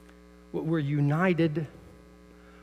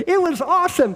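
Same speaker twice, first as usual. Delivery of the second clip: high, loud imitation of an excited kid; lightly voiced excited boy; mock kid enthusiasm; 13 semitones higher, 7 dB louder than usual. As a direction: play the kid who loved it. Expected happy answer from grandson.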